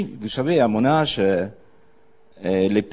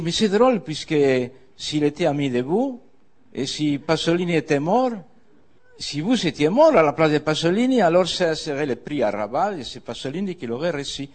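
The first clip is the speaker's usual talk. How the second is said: the mayor's joke; 5 semitones higher, faster than usual. Retold or imitated. Arrabal voices the mayor's joke.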